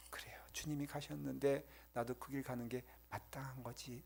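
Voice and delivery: soft unvoiced inner thought; a hushed inner vow; whispered resolve. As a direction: quietly accept the path.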